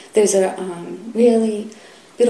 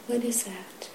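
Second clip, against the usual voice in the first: much softer, falling repeat to oneself; quiet echo; 3 semitones higher, 11 dB quieter than usual. Real, not acted. Teacher echoing the question to himself, hushed. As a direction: let the question sink in quietly.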